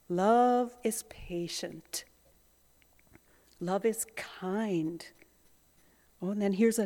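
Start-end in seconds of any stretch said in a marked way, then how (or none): 0.1-5.0 slow, soft, near-whispered scripture; hushed reading. Shown as a demonstration. Preacher softly reading love is patient, hushed and slow. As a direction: let each word settle, barely voiced.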